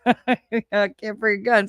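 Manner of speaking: laughing through the words. Real, not acted. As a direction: giggle while you talk.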